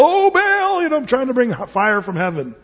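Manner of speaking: a lightly voiced frantic pagan cry, high on "Oh"; half-hearted imitation of desperate prophets; mild mock wail to a false god; mock yelling to Baal. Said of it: "these guys are yelling out to Baal".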